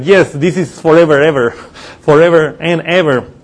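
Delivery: "forever" and "ever" each stressed for emphasis; emphatic repetition. Shown as a demonstration. Preacher explaining how Hebrew repeats for emphasis, emphatic repetition. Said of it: "they are trying to emphasize that".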